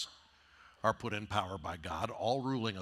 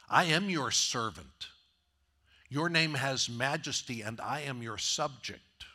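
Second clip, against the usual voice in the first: earnest praise; 3 dB louder than usual. Retold or imitated. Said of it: "what David is saying to God".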